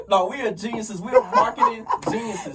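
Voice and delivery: high, loud boast through laughter; laughing boast. Real, not acted. Answering being called silly, loud laughing boast. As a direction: proclaim it loudly while laughing.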